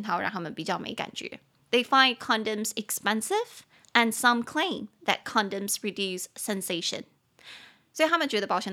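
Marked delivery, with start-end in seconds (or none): 1.7-7.0 slow reading. Shown as a demonstration. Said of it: "reads sentence to class".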